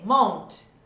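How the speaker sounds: Month ending in a hard T. Shown as a demonstration. Teacher imitates a student saying mont with a T. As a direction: show the wrong T ending on Month. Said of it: "Também não".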